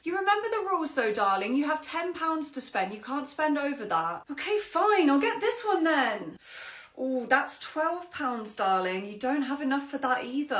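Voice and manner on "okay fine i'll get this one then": put-on high, grudging little girl; sulky child. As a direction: give in like a sulking kid. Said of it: "ten-year-old".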